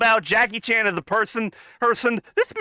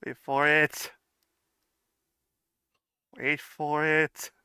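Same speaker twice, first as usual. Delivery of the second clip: hushed anticipation; 7 semitones lower, 6 dB quieter, slower than usual. Real, not acted. Hushed build-up to coolest moment.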